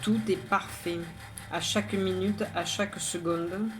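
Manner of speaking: measured, even poem reading with pauses between lines; poem recitation. Acted. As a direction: recite it line by line, evenly. Recites own poem aloud.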